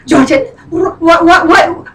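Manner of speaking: lightly imitated friend, stammering in disbelief; friend's voice. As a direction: mimic your friend stumbling over the question. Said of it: "she talks like this".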